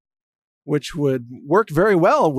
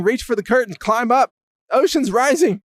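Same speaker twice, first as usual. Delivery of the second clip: higher-pitched pretend flood alarm; mock urgency; 6 semitones higher than usual. Host to candidate as ocean rises, mock urgency. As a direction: urge him upward in mock alarm.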